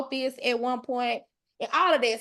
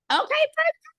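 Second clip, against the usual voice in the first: high, bright near-scream of delight; excited squeal; 4 dB louder than usual. Real, not acted. Host thrilled by the chat's replies, squealing high. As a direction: let the joy burst out high. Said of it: "Y'all finna make me scream in here".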